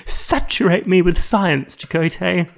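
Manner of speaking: high, slow theatrical plea; comically overdone romantic line; mock swooning captain. Mock Janeway swooning over science.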